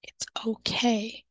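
slow, hushed reassurance; reassuring. Shown as a demonstration. Teacher reassuring a worried mom, slow and hushed. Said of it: "I let the parent know it's okay".

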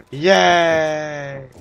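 excited gasp. Real, not acted. Found the elevator again.

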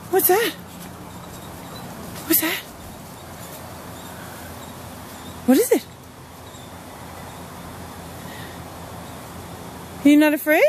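high, sing-song coaxing; dog-talk voice. Real, not acted. Owner coaxing her dog toward the scary decoration, high and sing-song.

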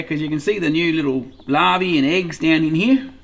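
ordinary talk, nothing marked

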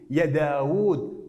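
يا داوود stretched out slowly; slow pronunciation demo. Shown as a demonstration. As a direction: draw out يا داوود. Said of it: "لأنها تنطق داوود".

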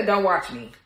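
amused, scoffing brush-off; laughing dismissal. Real, not acted. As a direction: laugh then toss off "Don't watch me".

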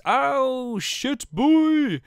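high, loud surprised yelp; a sudden high shout of surprise; startled yelp. Real, not acted. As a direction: blurt it out in shock. Startled outburst while reading name.

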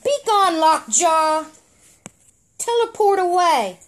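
high, loud regal command; commanding order. Acted. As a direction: send the dog off with authority. Medusa orders the dog away.

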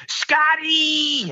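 put-on high squealed cry of an old man; hammed-up high yelp; mock scream. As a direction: shriek it like a panicked old man. Retelling film, old man scream.

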